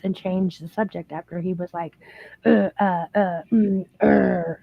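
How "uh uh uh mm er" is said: mock stuttering. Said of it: "he started stuttering".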